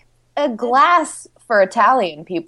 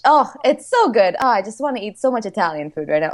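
put-on Italian accent; faster than usual. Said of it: "see, I'm doing it".

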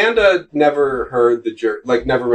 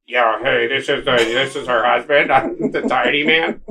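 low man's voice; 2 semitones lower than usual. Retold or imitated. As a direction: drop it down for the tiny husband. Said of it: "use the high-pitched one and talk low".

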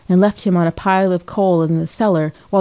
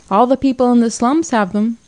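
higher, pleased with her winning point; triumphant; 6 semitones higher than usual. A narrator's reading. Muriel scores a point on the childless couple, lightly triumphant. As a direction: crow over the answer lightly. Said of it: "said Muriel triumphantly".

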